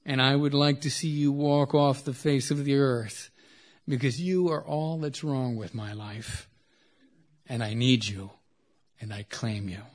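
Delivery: measured poem recitation with falling line endings; spaced-out literary reading. Acted. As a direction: recite it line by line, letting each phrase settle. Reads poem lines aloud.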